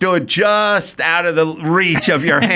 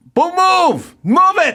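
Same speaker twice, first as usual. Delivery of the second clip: very high-pitched, stretched-out, drawn-out shout; 12 semitones higher than usual. Retelling how a driver yelled from his window: imitating a man yelling. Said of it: "And he goes".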